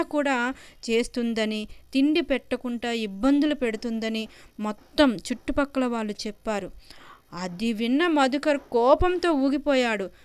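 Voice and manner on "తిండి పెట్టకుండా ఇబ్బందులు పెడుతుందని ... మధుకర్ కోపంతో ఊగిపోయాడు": ordinary delivery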